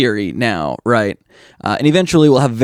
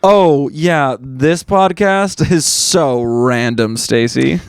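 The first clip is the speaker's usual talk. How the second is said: Gen Z voice; slower than usual. Pretend. Mocking Gen Z speech.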